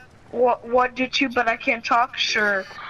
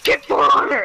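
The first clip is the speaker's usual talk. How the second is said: raised voice, mock chat yell; retold yell; 2 semitones higher, 5 dB louder than usual. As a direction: call it out like a yelled message. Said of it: "I yelled in chat".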